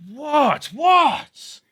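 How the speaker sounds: high, loud, dopey imitation of a sleepwalker; half-asleep sleepwalker. Sleepwalking mate answering the shouts, imitated half-asleep yelp. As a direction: imitate a mate startled while still asleep. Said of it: "obviously asleep, but not, not asleep".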